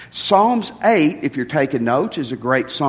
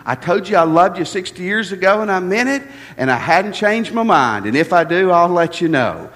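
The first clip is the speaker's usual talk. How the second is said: classic man answer. Retold or imitated. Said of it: "the classic man answer".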